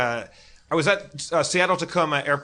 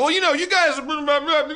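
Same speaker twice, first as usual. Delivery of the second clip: Southern guy; 11 semitones higher than usual. Retold or imitated. Southern guy quoted in a story.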